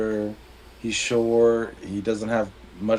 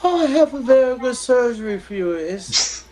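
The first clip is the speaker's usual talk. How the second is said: much higher put-on voice for the doctor, louder; a high, louder cartoonish surgeon; 13 semitones higher, 3 dB louder than usual. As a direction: play the joke's doctor up high and eager. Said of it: "And the doctor says".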